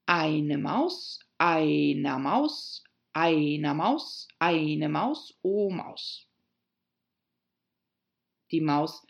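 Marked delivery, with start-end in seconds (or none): 0.1-6.3 slow drilled declension, each item lifting at the end; grammar recitation. Acted. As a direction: recite cases like a schoolbook list. Reciting Latin declension from grammar book. (leiernd aufgesagte Deklination)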